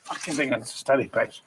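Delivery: bursts of shouted bollocks, varying pitch; berserk rage. Acted. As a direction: swear again and again in fury. Repeated outbursts in takes.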